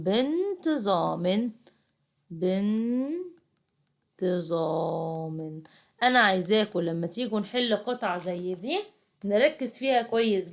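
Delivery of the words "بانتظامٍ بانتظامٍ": بانتظام slowly, ending in an added -in sound; kasra tanween. Shown as a demonstration. Teacher showing pupils tanween, slow kasra ending. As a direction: stretch بانتظام and sound the final -min. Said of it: "كلمة فيها تنوين بالكسرة".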